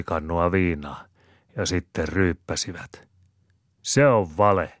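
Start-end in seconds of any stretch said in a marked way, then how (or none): 3.8-4.7 louder, higher outburst of disbelief; exclaiming. Acted. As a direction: blurt it out in protest. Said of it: "huudahtaa Maunon Pertta".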